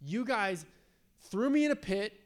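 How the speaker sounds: exasperated, pitch climbing as the grievances pile up; mildly hurt, pleading frustration; frustrated. Acted. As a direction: list your grievances like a wronged brother. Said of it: "I can imagine Joseph being frustrated".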